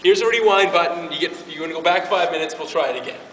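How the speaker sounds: loud, scolding, jokey voice of God; playful God voice. Retold or imitated. God scolding the preacher and offering a rewind, playfully loud. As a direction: tease yourself as God would. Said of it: "wish God would hit pause and go like".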